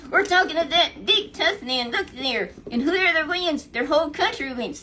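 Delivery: loud, high, booming challenge; giant's challenge. Retold or imitated. Goliath taunts the Israelites, loud booming challenge. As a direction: bellow the challenge to the whole army.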